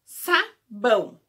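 "sabão" repeated slowly and clearly; slow modelled word. Shown as a demonstration. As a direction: draw out "sabão" for the kids. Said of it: "da palavrinha".

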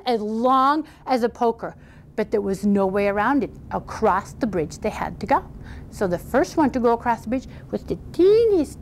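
storyteller stretching key words for drama; lively, theatrical fairy-tale telling; animated story narration. A narrator's reading. Tells a folktale.

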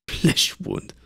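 high, mocking repeat of the phrase; mocking echo. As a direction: sneer the words back at him. Old priest mocks the phrase.

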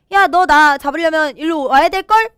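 playful mocking challenge; taunting. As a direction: goad them into chasing you. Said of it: "약 올리면서".

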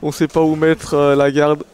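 excited commentary. Real, not acted. Hyped commentary on mix-ups.

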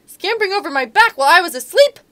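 a loud king lion in a bad mood; loud grumpy lion threatening the mouse. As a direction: growl it out as a cross lion king. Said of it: "said the lion".

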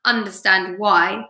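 expressive read-aloud with swooping character lines; lively children's storytelling; animated story reading. A narrator's reading. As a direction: read to children, lifting the dialogue and dropping on the tags. Reads story aloud to class.

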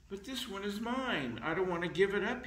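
put-on a kid clinging to his tooth; whiny protest. Little vampire refusing the tooth fairy, fast high whine. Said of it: "he says".

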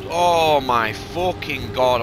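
slow, loud, drawn-out swear; sudden loud outburst. Real, not acted. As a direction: stretch every word out in disbelief. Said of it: "I'm so sorry for shouting".

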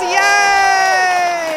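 cheering yay. Pretend. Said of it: "the studio audience says".

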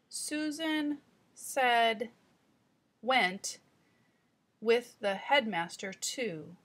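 put-on slow, careful child reading aloud; child rereading. Shown as a demonstration. Teacher voicing the child's second read, slow and careful. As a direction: sound it out slowly with a self-correction. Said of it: "what the child says on the second time through".

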